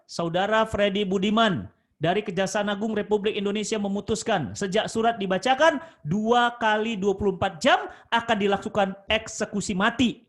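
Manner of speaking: loud, formal proclamation of the death sentence; official verdict reading. Retold or imitated. Preacher reads the prosecutor's execution letter aloud, formal and loud. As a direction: read it out like a court official, loud.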